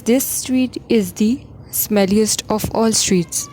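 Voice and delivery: This street is the smelliest of all streets read very slowly; slow model answer. Shown as a demonstration. Teacher reading the corrected sentence to students, slowly. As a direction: lay out each word of the right answer slowly. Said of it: "The answer is".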